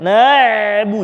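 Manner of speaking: na'bu with the ain broken off like a glottal stop; na'bu with a clipped hamzah-like break; wrong cut ain. Shown as a demonstration. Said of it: "jangan na'bu".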